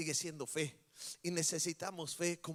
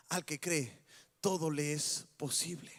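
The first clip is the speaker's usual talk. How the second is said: gentle, low Jesus; 4 semitones lower than usual. Acted.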